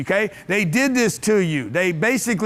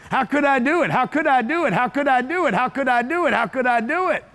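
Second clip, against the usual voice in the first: higher-pitched, run together in an even loop; repeated eager mantra; 5 semitones higher than usual. Shown as a demonstration. Speaker showing the audience his daily self-question, eager repeated mantra.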